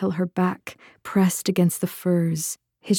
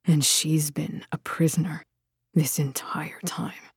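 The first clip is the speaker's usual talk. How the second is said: soft, halting, horrified undertone; hushed, taking in the news; whispered; 3 semitones lower, 6 dB quieter than usual. A narrator's reading. Man realising she was a prisoner all along, whispered. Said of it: "Then he whispered".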